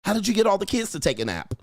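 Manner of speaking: the wife can't believe it; amazed. Retold or imitated. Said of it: "wife asks amazed".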